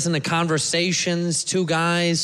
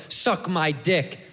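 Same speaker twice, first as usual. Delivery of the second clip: slow, lower-pitched put-down; negative, as an insult; 5 semitones lower, much slower than usual. Shown as a demonstration. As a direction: say it slowly as a hostile insult. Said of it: "there's a negative connotation when you say that".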